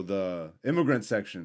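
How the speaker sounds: low, soft, slow, offhand mention; as if unfamiliar. Real, not acted. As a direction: say it like you barely know it. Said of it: "don't say like you don't know it".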